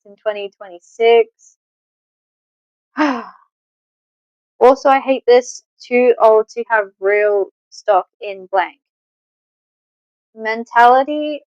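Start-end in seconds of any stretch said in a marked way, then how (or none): 5.8-8.8 slow, even robotic read. Real, not acted. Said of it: "I was reading it like a robot".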